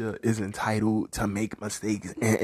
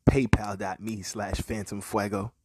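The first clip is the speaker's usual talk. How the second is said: whispered; 3 semitones lower, 5 dB quieter than usual. Real, not acted. Whispered payment handle.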